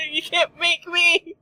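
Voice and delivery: high laughing shouts of no; refuse, half laughing; loud refusal. Pretend. Refusing to undress.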